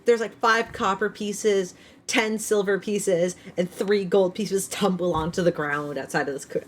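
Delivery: high, slow, loud storytelling; excited narration. Acted. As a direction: build up the loot reveal. GM narrating the loot.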